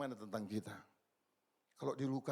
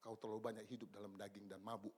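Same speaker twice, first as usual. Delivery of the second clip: much lower and softer, calm divine rebuke; voice of God; 6 semitones lower, 12 dB quieter than usual. Retold or imitated. God answering the weary reader, low and soft. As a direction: speak down gently as God answering. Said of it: "Tuhan bilang".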